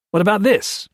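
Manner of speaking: barked question. A narrator's reading. Gray barks at the king, holding up the notes, loud. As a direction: shove the evidence at him. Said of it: "Gray barked at the king".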